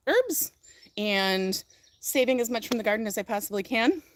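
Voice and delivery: hushed whisper. Real, not acted. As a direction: drop to a whisper. Whispering aside while dog is mad.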